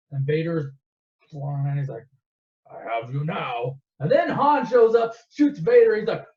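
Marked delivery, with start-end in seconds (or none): 2.7-3.8 slow, lower villain line, lightly voiced; a hint of slow, low menace; menacing villain. Vader closing in on Luke, lightly menacing.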